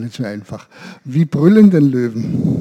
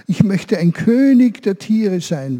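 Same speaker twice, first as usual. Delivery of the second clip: goat's wish; 3 semitones higher, slower than usual. Acted. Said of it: "da sagte sie".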